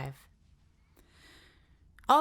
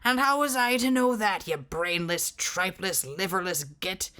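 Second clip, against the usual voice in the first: angry insult. Acted. Giant cursing the sentry.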